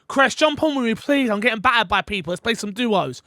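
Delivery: half-serious plea to a mate to join in; mock pleading. Acted plea to a friend.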